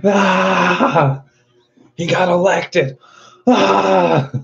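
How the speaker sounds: high, wailing fake sob; mock crying. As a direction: ham up a crybaby wail over the news. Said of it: "Start crying".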